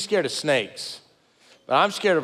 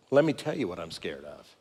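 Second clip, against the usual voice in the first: lower, softer, slowing into honesty; reflective hush; 11 semitones lower, 7 dB quieter than usual. Retold or imitated. Man answering his wife's question, quietly reflective. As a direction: drop the voice and turn inward. Stops to face his fear.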